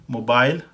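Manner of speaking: मोबाइल said "mo-bile"; British mobile. Shown as a demonstration. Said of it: "ये फ़र्क है इस तरह से".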